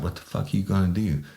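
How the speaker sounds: lightly voiced taunting crook; mocking tough guy. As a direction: sneer it like a street tough. Bad guy taunts the officer.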